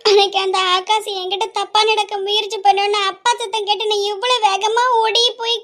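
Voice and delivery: slow grieving plea, crying near the end; tearful lament. Acted. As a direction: pour out her pain to her lost mother. Girl alone laments to dead mother.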